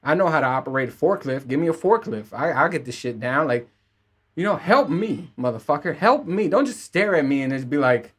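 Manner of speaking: complaining loudly at the staff; mock frustrated rant. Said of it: "And I'm like".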